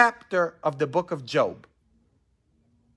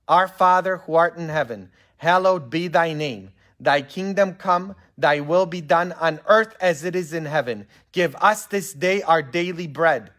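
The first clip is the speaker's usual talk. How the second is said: measured congregational recitation; reciting prayer; 2 semitones higher, 4 dB louder than usual. Acted. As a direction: lead the room in prayer, firmly and evenly.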